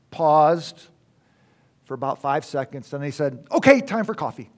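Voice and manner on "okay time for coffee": imitating a British lecturer, higher and louder; bright-pitched, raised British announcement; British accent. British lecturer dismissing class for coffee after a pause, British accent. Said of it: "And in his British accent".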